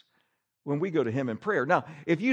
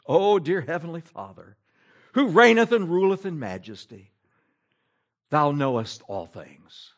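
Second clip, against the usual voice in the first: pompous old English prayer, lightly hammed; lightly mock a pompous prayer in old English; mock King James prayer; 5 dB louder than usual. Preacher mocking a pompous bread-aisle prayer, in lightly hammed King James English. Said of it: "here's how your prayer goes".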